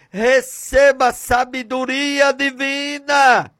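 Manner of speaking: high, forceful declaration; impassioned preacher voicing God; proclaiming Father. The Father empowering his son, proclaimed.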